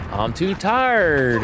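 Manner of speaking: put-on slow, drawn-out whine of a tired child; whiny toddler. Dad imitating his tired son, slow whiny toddler voice. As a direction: stretch it like a worn-out little kid. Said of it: "he'd start whining".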